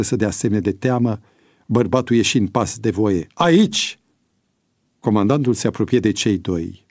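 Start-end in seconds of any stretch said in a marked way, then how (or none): 3.3-4.0 high, crisp reply to the commander; roll-call answer. A narrator's reading. (răspuns ferm la apel)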